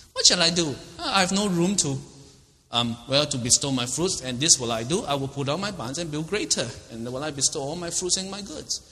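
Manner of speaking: a scheming rich farmer, pleased with himself; rich man planning. Acted. Preacher voicing the rich fool, eager and greedy.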